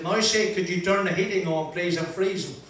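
slow, deliberate, every word spelled out; speaking slowly. Retold or imitated. Asking the bus driver again, slowly and concisely. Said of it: "So I spoke slowly and I said".

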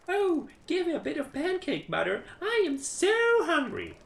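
put-on high, pleading child voice; child begging. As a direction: beg like a hungry little kid. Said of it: "said one child".

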